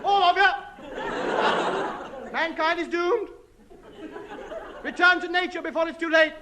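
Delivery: high defiant proclamation shout; shouting doom to the world; b-movie acting. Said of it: "shout my last defiant message".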